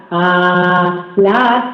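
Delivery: sustained low A resonating in the chest; well-placed A. Shown as a demonstration. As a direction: hold A long and low from the chest. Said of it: "si tengo la voz bien colocada". (una A sostenida, grave, resonando en el pecho)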